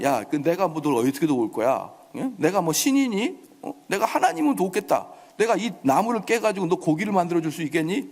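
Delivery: mild mock-king scoffing; lightly imitated sneering refusal; sarcastic. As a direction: toss out scornful rhetorical questions. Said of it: "이렇게 빈정거리는 사람이".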